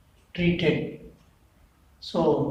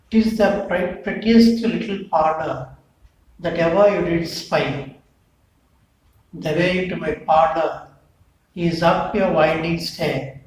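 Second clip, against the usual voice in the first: poem recitation. Acted. Teacher reads the poem's first stanza to the class. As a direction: recite each line with a firm fall.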